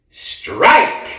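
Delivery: high, loud umpire shout; umpire's call. Acted. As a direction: call the strike across the field. Umpire calls the strike.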